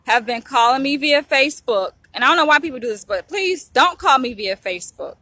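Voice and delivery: firm, exasperated telling-off; stern rebuke. Real, not acted. Vlogger scolds a caller interrupting her video, stern rebuke.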